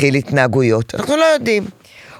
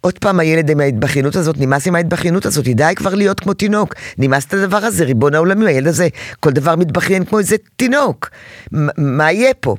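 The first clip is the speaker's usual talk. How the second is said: exasperated inner voice; 2 semitones lower than usual. Retold or imitated. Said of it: "את אומרת לעצמך".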